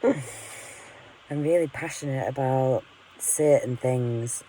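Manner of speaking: slow, amused repeat through a laugh; self-mocking chuckle, drawn out. Real, not acted. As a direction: laugh at yourself as you say it again, slowly. Repeats line, laughing at herself.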